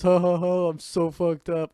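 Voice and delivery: high, loud, tipsy giggle; drunk party girl. Retold or imitated. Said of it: "the last thing you hear my girlfriend is".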